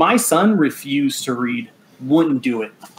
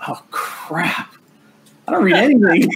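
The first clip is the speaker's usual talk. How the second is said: caught out; 6 semitones higher than usual. Retold or imitated. Dad caught out by his son's question, high sheepish confession. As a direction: realise you've just been caught out. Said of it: "I was like".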